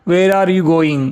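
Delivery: where are you going? with pitch falling at the end. Shown as a demonstration. Teacher demonstrating W H question intonation: falling tone. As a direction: let going drop down like a W H question. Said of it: "falling intonation".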